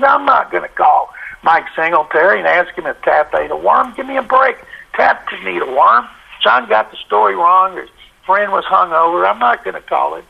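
high, incredulous scoff at a silly assignment; scoffing refusal. Retold or imitated. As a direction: brush it off as nonsense.

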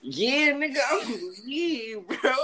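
high and loud, fed up; indignant outburst. Real, not acted. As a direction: blurt it out, fully outraged. Indignant about airport wait.

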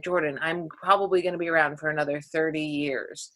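quiet patient mother; mom's quiet reply. Retold or imitated. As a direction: calmly set her straight. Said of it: "she was like".

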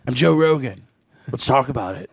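lightly voiced podcaster impression; Joe Rogan. Podcast host opening his show, light impression. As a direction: open loud, then settle into host talk. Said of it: "Do it in Joe Rogan's voice".

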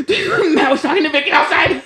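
excited Jeremy. Retold or imitated. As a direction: spill the news to Anna, eager.

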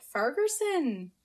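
slow, drawn-out Scottish try at a surname; attempted Scottish accent. Shown as a demonstration. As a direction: stretch it out in a clumsy Scottish accent. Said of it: "kind of in a Scottish accent".

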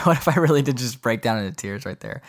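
real laughter through the question; laughing. Real, not acted. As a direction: giggle as you joke about tears. Laughing at his own crack.

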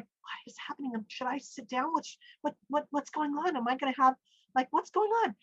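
retold panic, stumbling over the questions; freaking out. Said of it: "while I'm freaking out".

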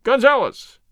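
high, loud shriek. Acted. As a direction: shriek the name. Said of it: "he shrieked".

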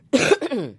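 throat clear from a cold. Real, not acted. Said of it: "I have a little bit of a cold".

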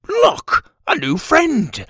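high, wide-eyed friendly call; blankly delighted little father; dazed dad voice. Acted. Dazed dad greets cat.

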